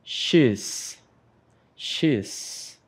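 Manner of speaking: teacher repeats "She's" and lets the second fade; model pronunciation. Shown as a demonstration. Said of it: "vamos praticar a pronúncia".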